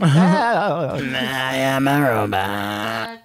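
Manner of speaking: very slow, emotionless robot drone. Pretend. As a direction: stretch each word like a machine. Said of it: "Old lady robot".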